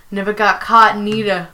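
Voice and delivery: lightly faked New York accent; a hint of New York convict; Prison Mike. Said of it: "really bad New York accent".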